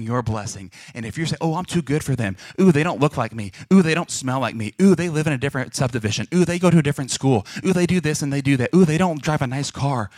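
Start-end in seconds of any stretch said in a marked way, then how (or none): 1.4-10.1 mock disdain, punching each "ooh"; mocked snobbish attitude. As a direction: play someone too good for everyone. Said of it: "Because of that attitude".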